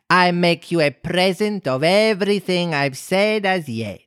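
grandly bestow it, self-satisfied; pleased Duchess. A narrator's reading. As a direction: Duchess making a lofty offer.

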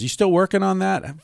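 high, chirpy mock waiter; waiter's question. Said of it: "the waiter comes over and says".

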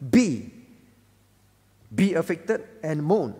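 forceful scripture command, pause after BE; emphatic command. Shown as a demonstration. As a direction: land firmly on BE as an order. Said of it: "these are in command mode".

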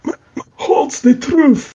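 put-on high, strained dying voice with an Italian accent; dying woman in a heavy Italian accent. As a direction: gasp it out in a thick Italian accent. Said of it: "it's a heavily accented voice".

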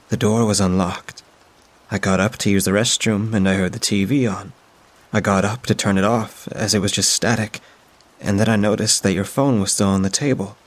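a hint of a kind older woman, soothing; lightly voiced friend, gently puzzled. Friend insists the door was open, lightly voiced and soothing.

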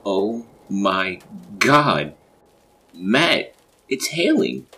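loud, high, drawn-out cry of alarm; high-pitched holler; calling out. A narrator's reading. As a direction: shout it through the house. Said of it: "Emily's voice echoed through the hallways".

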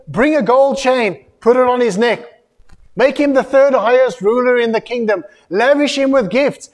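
a king grandly ordering his servants; king's command. Retold or imitated. King Belteshazzar ordering gifts for Daniel, grand command.

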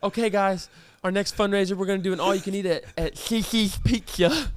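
"Cici's Pizza" said as "Thithi's Pikka", lisped; mock lisp on the S sounds of "Cici's Pizza"; imitating a lisp. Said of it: "the one mom with the lisp".

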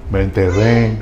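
a low, laughing admission he is stuck; laughing confession. Retold or imitated. Friend calling from the mud, laughing it off. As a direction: laugh it out, caught out.

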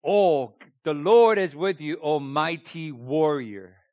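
loud, slow, grand proclamation; angel's greeting. Acted. Preacher voicing the angel greeting Gideon, loud and grand. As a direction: announce it like a heavenly herald. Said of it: "And this angel appeared to him".

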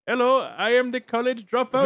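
mock Indian accent. Pitching a fake-rapper bit for the show, mock Indian accent. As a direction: put on an exaggerated Indian accent. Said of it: "Indian man to pretend to be a rapper".

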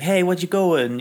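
lightly voiced streetwise toon; a hint of a wisecracking cartoon. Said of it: "he's a bit more Bugs Bunny".

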